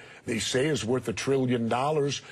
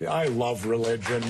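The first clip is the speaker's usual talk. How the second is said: sarcastic; 2 semitones lower than usual. Real, not acted. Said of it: "I say that sarcastically".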